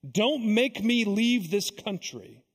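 slow, drawn-out plea; mildly acted begging. Evil spirit begs Jesus not to expel it, mildly pleading. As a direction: plead slowly, a touch of desperation. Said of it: "spirit begins to beg Jesus".

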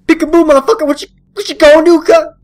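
loud, fast taunting yell; hammed-up taunt; mock taunt. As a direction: jeer at the monster. Taunting a jump scare monster.

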